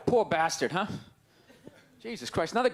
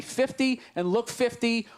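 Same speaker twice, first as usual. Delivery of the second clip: slow emphasis; 3 semitones lower than usual. Shown as a demonstration. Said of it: "repeated with second option".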